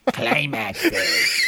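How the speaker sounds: cackling yell breaking into laughter; laughing goblin shout. Pretend. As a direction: shout it while cracking up. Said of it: "That's if I sound like a goblin".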